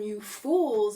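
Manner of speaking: mock spirit rebuke; ancient spirit voice. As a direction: call it out like an old-world spirit. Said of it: "That's how they talk".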